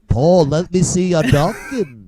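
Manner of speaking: hammed-up mock sixties band member; famous-band impression. One bandmate asking another about docking, band impression. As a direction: call to a bandmate as a joke band member. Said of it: "that's my famous-band impression".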